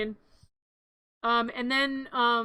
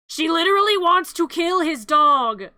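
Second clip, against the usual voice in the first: loud, indignant exclamation; loud shocked outburst; outraged; 3 semitones higher, 7 dB louder than usual. Real, not acted. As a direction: blurt it out in disbelief. Outraged narration of the scene.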